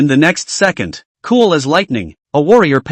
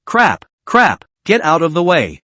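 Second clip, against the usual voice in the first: horrified shout. Acted. Cyclist about to hit a woman, panicked shout. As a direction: yell to the woman to get clear. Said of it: "shouted in horror".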